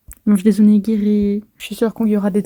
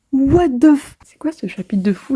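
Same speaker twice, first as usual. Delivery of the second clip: usual speaking voice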